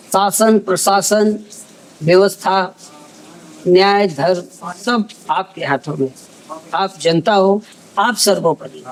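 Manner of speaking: measured, solemn news anchor delivery with long pauses; grave closing piece to camera; news report read. Acted.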